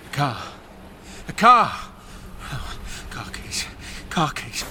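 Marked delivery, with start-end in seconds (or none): 1.3-1.7 excited. Acted. Sudden realisation. 3.1-3.7 breathless whisper. Acted. Whispering to herself.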